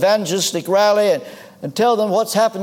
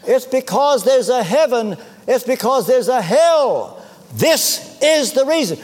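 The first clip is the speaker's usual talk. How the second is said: higher-pitched, insistent declaration; emphatic preaching; 5 semitones higher than usual. Real, not acted. Preacher telling a congregation the real reason, emphatic preaching. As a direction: drive the point home, pitched up. Preacher drives home the central point.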